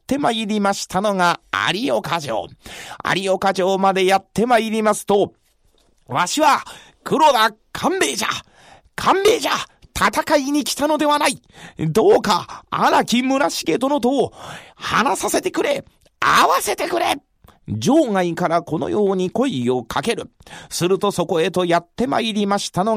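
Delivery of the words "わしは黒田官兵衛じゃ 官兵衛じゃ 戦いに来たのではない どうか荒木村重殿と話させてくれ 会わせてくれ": calling out. Acted. Calling out at the castle gate.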